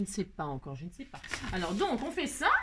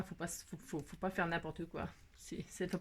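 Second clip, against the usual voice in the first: whispered to herself; 5 semitones lower, 11 dB quieter than usual. Real, not acted. Crafter concentrating on a tricky step, whispering. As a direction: breathe the words while concentrating.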